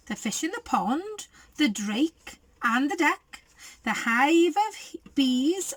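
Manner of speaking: lively storybook reading; reading to children. A narrator's reading. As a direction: read it like a bedtime picture book. Reads picture book aloud.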